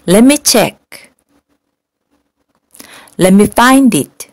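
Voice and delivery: each phrase slowly with pauses for students; slow repeat-after-me. Shown as a demonstration. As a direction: model drill, clear and unhurried. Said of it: "우리 한 번씩 따라해볼까요?". (따라하기용으로 천천히 또박또박)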